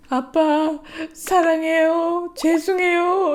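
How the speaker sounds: put-on timid child apology. Mom imitating her son's careful apology to dad. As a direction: coax it out like a nervous little boy. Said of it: "이렇게 말해요".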